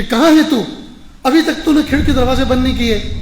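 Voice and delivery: impatient call. Retold or imitated. Master calls the gardener's wife indoors, loud and impatient.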